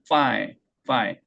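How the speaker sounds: "fine" starting with teeth bitten on the lip; "fine" with f set before the air flows. Shown as a demonstration. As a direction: bite the lip, then release air for "fine". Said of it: "이렇게 깨물고".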